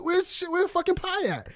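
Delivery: high furious ranting yell; angry as hell. Retold or imitated. Dad demanding who ordered pie, furious high yell. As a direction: rant like a stiff-necked furious dad. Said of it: "he's angry as shit".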